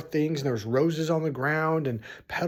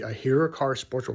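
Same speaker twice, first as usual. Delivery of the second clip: ordinary delivery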